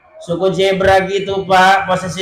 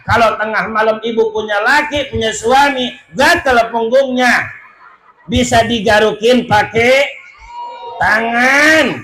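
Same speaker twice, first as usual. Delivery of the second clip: building joke; 5 semitones higher than usual. Acted. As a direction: build the joke and shout the last word. Punchline build to the crowd.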